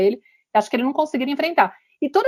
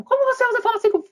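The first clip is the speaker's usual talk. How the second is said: indignant mother; 13 semitones higher, faster than usual. Retold or imitated. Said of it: "Aí ela fica quieta".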